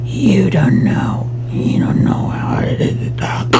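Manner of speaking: very high, drawn-out put-on voice; trying out a voice. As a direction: stretch the words out way up high and loud. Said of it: "Trying to figure out this voice".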